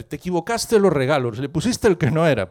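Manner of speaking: mildly scolding husband; mock scolding. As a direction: lightly act out a husband's telling-off. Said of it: "le echó una bronca a la mujer". (regañina fingida de marido)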